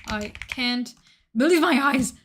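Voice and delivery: exaggerated gasp of wonder; mock amazement. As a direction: sell it like a jaw-dropping moment. Hamming up the voice line.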